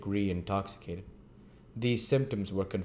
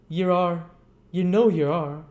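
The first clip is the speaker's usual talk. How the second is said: higher whining insistence; higher snivelling apprentice retorting; 9 semitones higher, 6 dB louder than usual. Acted. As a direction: fling it back at her. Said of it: "retorted Noah".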